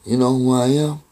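understated irritated question, held level; mildly irritated. Retold or imitated. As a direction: lightly imitate an annoyed man quizzing you. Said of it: "He's just irritated".

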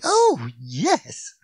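put-on cheery little old lady, drawn out; piping cheerily. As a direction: pipe it out with relish. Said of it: "she piped cheerily".

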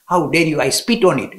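loud, indignant defiance of the goddess; defiant retort. Retold or imitated. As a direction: flare up and refuse her outright. Ramakrishna defies the Mother Goddess.

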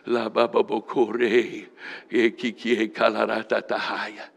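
steady, murmured chant of tongues syllables; speaking in tongues. Real, not acted. Preacher praying over the church, chanting in tongues. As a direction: pray in tongues, rhythmic and unbroken.

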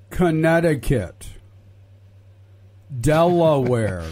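slow, loud, over-enunciated state names; mock-patient, loud and drawn out; spelled out slowly. Shown as a demonstration. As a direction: spell it out for slow listeners, syllable by syllable. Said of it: "the Trump supporters that may be listening".

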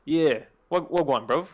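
attempted London roadman accent; tentative roadman greeting; British roadman accent. Showing off accent to friend, British roadman accent. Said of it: "I can do the Roadman one".

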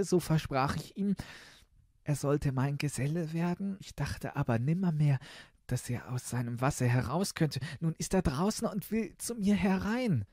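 put-on high girlish princess voice; confessing princess. Princess confesses her promise to her father, high and plaintive.

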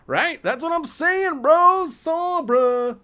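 high, excited exclamation; hyped shout. Real, not acted. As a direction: squeal it out, thrilled. Hyped about the Sombra look.

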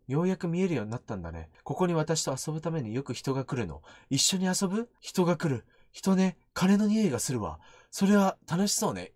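soft, low reading of ghostly dialogue; understated horror-game character reading; subdued dialogue reading. Acted. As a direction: voice the game text quietly.

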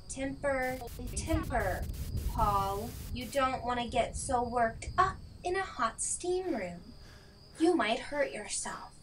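soft, menacing villain taunt. Acted. The killer taunts trapped Paul, soft menacing taunt. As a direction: purr the warning like a killer enjoying it.

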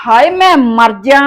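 slow, loud dramatic gasp of outrage; mock shock. Daughter-in-law outraged by mother-in-law's remark, slow loud. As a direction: play up the outrage.

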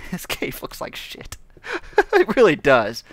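slow words squeezed through real laughter; amused, laugh-broken delivery. Real, not acted. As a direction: crack up while saying it. Laughs at his own cave.

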